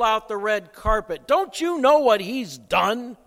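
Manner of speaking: slow, weighted indignant protest, pressing on dare; angry older brother. Retold or imitated. Older brother confronting his father over the returned son, mildly indignant. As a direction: confront the father as the bitter son, a touch heated. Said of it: "He was angry at his father".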